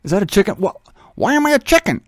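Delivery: high, startled chicken squawk; a chicken baffled at being a chicken. Retold or imitated.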